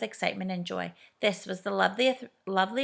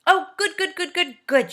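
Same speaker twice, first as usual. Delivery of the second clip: louder, higher cheer of relief; delighted shout; 10 semitones higher, 7 dB louder than usual. A narrator's reading. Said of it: "shouted everyone".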